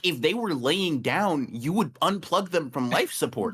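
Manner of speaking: excited rant. Real, not acted. Heated absurd rant, high voice.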